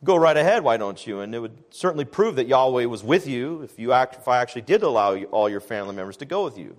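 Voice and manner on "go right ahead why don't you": mock sarcasm. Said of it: "he's speaking sarcastically".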